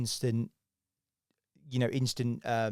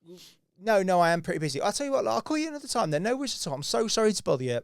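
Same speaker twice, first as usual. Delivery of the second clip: flustered backpedalling; 4 dB louder than usual. Retold or imitated. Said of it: "And then they say".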